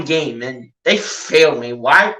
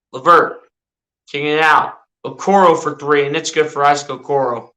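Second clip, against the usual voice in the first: mock sportscaster calling the action; casual play-by-play of a video game; live play-by-play. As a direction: call each move as it happens, like a TV announcer.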